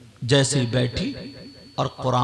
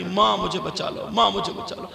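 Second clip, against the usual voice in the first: mild mock cry for help; 5 semitones higher than usual. Preacher voicing girl begging mother for rescue, understated plea. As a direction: repeat the plea with restraint, barely acted. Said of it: "چلانے لگی".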